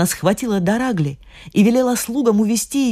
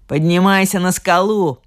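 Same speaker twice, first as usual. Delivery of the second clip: commanding. Acted. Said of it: "приказала она".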